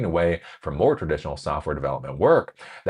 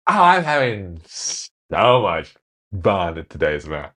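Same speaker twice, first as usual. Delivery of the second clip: forced cheer; slower than usual. Retold or imitated. Acted employee forced reply.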